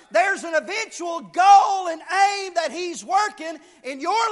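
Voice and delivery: driving, emphatic pulpit cadence; preacher urging the congregation on; fervent preaching. Real, not acted. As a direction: proclaim it firmly, stressing the contrasts. Preaches at full force.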